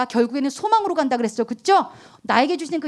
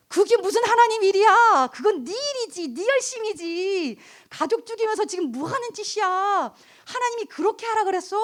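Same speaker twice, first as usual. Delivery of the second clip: a touch of an incredulous rebuke, much higher, slowing on 네 일이지 네 열심이지; stern rebuke; 9 semitones higher than usual. Retold or imitated. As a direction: call her out, pointedly. Pastor's rebuke retold.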